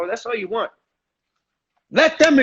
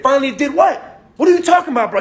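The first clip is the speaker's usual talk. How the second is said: higher, louder, irritated demand; friend getting mad; 4 semitones higher, 4 dB louder than usual. Shown as a demonstration. Friend on the phone getting mad at the hype, snapping back. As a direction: push back like an annoyed friend. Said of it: "He's gonna start getting mad".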